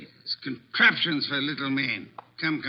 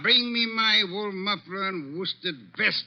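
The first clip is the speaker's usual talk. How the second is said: higher and louder, irritated orders; flustered shouting; 6 semitones higher, 4 dB louder than usual. Acted. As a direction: call out to Fritz in a huff. Wolfe calls out, flustered.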